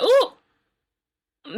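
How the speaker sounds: a high, loud, delighted ooh; surprised ooh. Real, not acted. To viewers, surprised at liking Britt, high delighted ooh. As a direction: squeal a surprised ooh at yourself.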